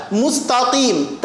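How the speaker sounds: Mustaqim with a light "ta", thick q; thin ta. Shown as a demonstration. Teacher drills the word, ta thin. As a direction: keep "ta" of "Mustaqim" flat and thin. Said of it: "taknya tipis".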